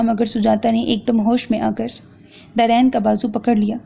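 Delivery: ordinary delivery, nothing marked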